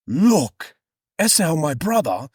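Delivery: high, halting theatrical son; hammed-up Bible character; Jacob's character voice. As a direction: break it up with dramatic pauses, pitched high. Voices Jacob to his mother.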